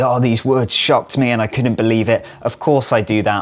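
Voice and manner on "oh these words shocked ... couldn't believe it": ordinary talk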